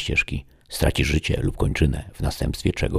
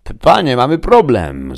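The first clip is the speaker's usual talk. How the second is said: cautious stammer; 9 semitones higher, 8 dB louder than usual. A narrator's reading. Chief gadoid reporting to his lord, cautious. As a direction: stammer the bad news out carefully. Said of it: "zaczął ostrożnie naczelny gadoid".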